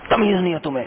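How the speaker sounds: high, falling burst of retold anger; retold angry shout. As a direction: imitate an admin snapping at an employee. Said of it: "میں نے زور سے چیخا".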